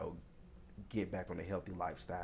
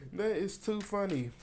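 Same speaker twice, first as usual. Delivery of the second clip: high, loud voice fresh from laughing; amused, after laughing; 12 semitones higher, 5 dB louder than usual. Real, not acted. Reader tickled by her own accent attempt, amused. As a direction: say it through the tail of a big laugh.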